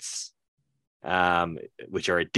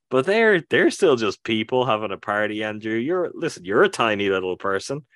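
emphatic pitch; 3 semitones higher, 4 dB louder than usual. Real, not acted. Pressing cohost Andrew about parties, mock-intense insistence. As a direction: hammer home the point to a friend, half joking. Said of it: "Wow, that's, that's extreme".

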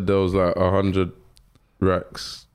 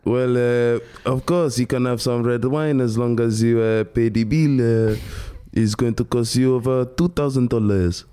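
French-accented waiter, hesitating with uhs; mock French, careful and halting. Shown as a demonstration.

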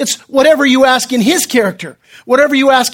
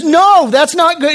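firm retold objection, pitched up; retold rebuke; 5 semitones higher than usual. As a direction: protest as Peter, mildly emphatic. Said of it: "he rebukes the Lord".

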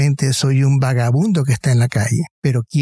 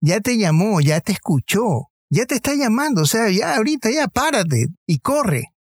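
pitched up high, pressing him to hurry; eager push, rising high and insistent; urgent coaxing; 5 semitones higher than usual. Retold or imitated. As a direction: urge him to get up and run now. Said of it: "Como diciendo".

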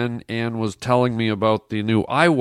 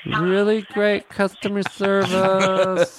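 sarcastic; 8 semitones higher, slower than usual. Acted. Prank caller complaining sarcastically.

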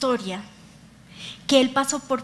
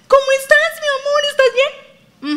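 sweet lover voice; 12 semitones higher, 5 dB louder than usual. Retold or imitated. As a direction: coo it like a doting boyfriend. Boyfriend asks his girlfriend.

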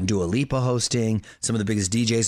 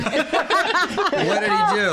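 laughing; 13 semitones higher, much slower than usual. Real, not acted. Laughing over the Canadian mixup.

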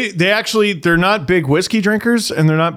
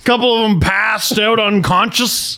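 playful imitation of a buddy; mock chummy reminder; 6 semitones higher than usual. Imitating Carlton to Leo.

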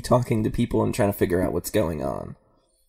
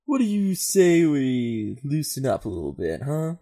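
lightly voiced mellow stoner. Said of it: "Eric can do his stoner voice".

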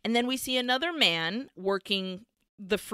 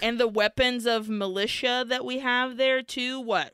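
judgmental. Retold or imitated. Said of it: "very judgmentally, is like".

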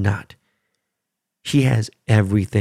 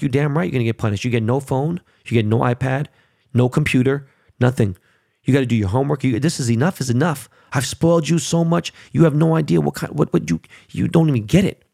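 raised, heated father scolding his son; retold furious scolding; 2 semitones higher than usual. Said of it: "I'm furious".

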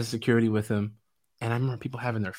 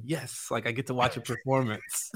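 put-on like an excited kid; 7 dB quieter than usual. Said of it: "like a kid".

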